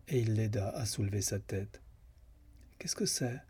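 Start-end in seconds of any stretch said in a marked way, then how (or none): 2.8-3.4 higher, faintly bewildered question; dazed. Acted. Julia waking from a faint, dazed and bewildered. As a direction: ask as if just coming to. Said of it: "d'un air égaré".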